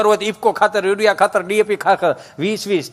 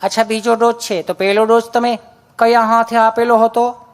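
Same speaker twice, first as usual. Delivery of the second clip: nurse asking politely; 2 semitones higher than usual. Retold or imitated. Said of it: "nurse બેન".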